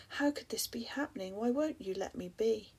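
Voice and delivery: frightened whispered pleading rising. Acted. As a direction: beg the storm, scared and hushed. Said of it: "I plead".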